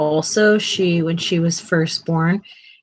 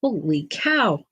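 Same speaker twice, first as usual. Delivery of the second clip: slow and drawn out; slower than usual. Real, not acted. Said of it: "Wait for my heart rate to come back down".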